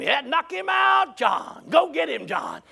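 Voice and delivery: drawn-out call cheering a friend on; storyteller imitating hunters urging him up; acted encouragement. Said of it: "they started encouraging him".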